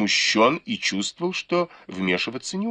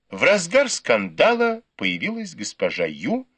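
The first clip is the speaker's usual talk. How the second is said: ordinary delivery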